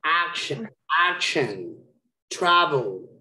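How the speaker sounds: "Action, action, travel", each with a firm first syllable; stress on first syllables. Shown as a demonstration. Teacher modelling words for a stress quiz, first syllables stressed. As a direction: hit AC and TRA, let each word fall. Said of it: "where is the stress?".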